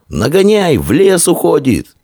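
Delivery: high, stretched chase cry; excited boy's alarm call; urgent calling. A narrator's reading. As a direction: call to a friend to catch up, pitched high. Boy calls out in the chase.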